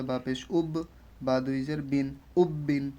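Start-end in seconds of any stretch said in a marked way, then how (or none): 2.4-2.8 "উব্বিন" with a small bounce on the first "ব"; slight qalqalah. Shown as a demonstration. Teacher pointing out qalqalah, "উব্বিন" with a slight bounce. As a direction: release the "ব" of "উব্বিন" with a light echo. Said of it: "কলকলা কিন্তু হচ্ছে একটু".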